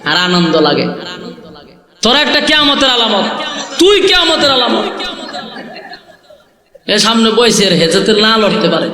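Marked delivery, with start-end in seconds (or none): 2.0-4.9 high-pitched telling-off with falling endings; scolding. Real, not acted. Preacher scolds misbehaving boys in the crowd, scolding. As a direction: rebuke them from the pulpit.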